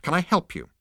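grudging help; curt insect. Acted. Insect grudgingly addressing the robot, curt.

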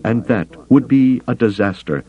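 high-pitched alien counselor warning of disaster; grave, urgent Bothan. A narrator's reading. Bothan warning Carter of disaster for his people, urgent.

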